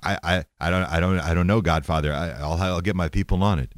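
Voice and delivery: low, stammering underling; mock-sheepish mob henchman making excuses; Jesus. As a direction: shrug it off in a low, hesitant voice. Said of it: "Jesus is sitting there shrugging his shoulders".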